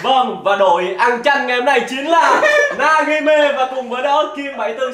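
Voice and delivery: laughing, slow result announcement; sports commentator. Acted. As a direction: announce the losers with glee. (giọng bình luận viên cười)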